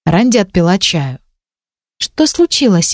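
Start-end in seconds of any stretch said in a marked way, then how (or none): 2.0-2.9 lightly voiced worried girl, higher; a hint of a concerned young girl. Ранди спрашивает, голос выше. (лёгкий встревоженный девичий голос)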